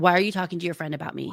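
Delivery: imitated defensive tone. Retelling a contestant's reply to her partner: imitating a defensive reply. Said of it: "She immediately gets defensive".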